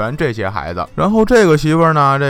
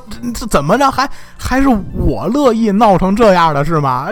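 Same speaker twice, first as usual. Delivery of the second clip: higher-pitched, mildly heated comeback; indignant retort; 5 semitones higher than usual. Acted. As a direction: throw the blame back with rhetorical questions. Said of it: "抬头瞪着乔国老说". (略带气恼地反问顶嘴)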